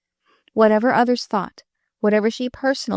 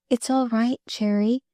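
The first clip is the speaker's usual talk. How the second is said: soft breath; 3 semitones higher than usual. Acted. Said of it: "Marilyn breathed softly".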